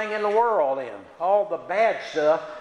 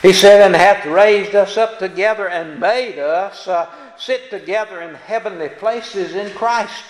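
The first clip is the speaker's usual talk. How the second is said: preaching scripture; 8 dB louder than usual. Acted. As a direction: proclaim the verse to the congregation. Preaches verse loudly.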